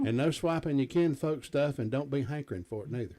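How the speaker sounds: a light hillbilly twang, barely put on. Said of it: "in my best hillbilly voice".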